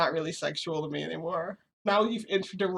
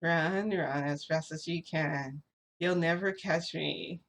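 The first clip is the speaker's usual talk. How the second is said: pretend gingerbread man; 3 dB quieter, slower than usual. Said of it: "I pretended to be, like, a gingerbread man".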